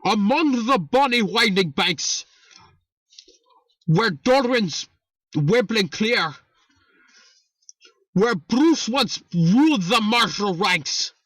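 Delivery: theatrical mock-Irish poem recital; measured, hammed-up Irish brogue; put-on Irish accent. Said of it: "I will put on my Irish accent".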